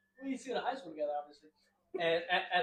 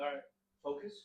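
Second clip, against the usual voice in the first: high self-calming voice; 4 semitones higher, 4 dB quieter than usual. Retold or imitated. Stoned self-talk while driving.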